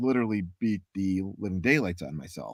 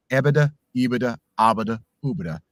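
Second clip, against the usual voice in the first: vowel exercise. Shown as a demonstration. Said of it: "the vowel exercise".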